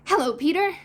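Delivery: put-on high, loud childlike hello; boys' greeting. A narrator's reading. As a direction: pipe up brightly to an old friend. Two boys greet Peter.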